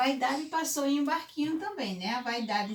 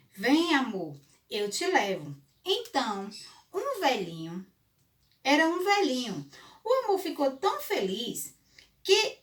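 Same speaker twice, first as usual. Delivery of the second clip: put-on storytelling to children; 3 semitones higher than usual. A narrator's reading. Fable narration with dialogue.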